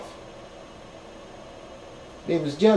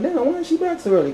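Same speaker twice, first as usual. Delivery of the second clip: surprised; 12 semitones higher, faster than usual. Retold or imitated. Sees scooter return too soon.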